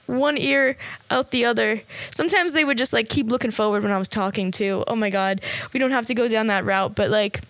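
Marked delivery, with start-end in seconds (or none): none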